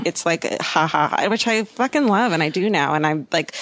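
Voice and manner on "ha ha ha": a big open-mouthed ha ha ha; loud guffaw. Retold or imitated. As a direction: laugh out loud so the stage hears it. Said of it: "there's no under your breath guffaw".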